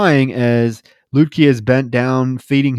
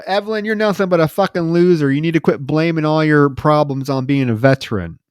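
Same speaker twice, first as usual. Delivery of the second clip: retold yell; 3 semitones higher than usual. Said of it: "yells at him".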